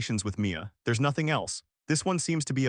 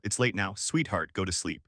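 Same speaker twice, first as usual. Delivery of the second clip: tender lullaby voice; 5 semitones lower than usual. Acted. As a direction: hush her gently toward sleep. Father lulls daughter to sleep.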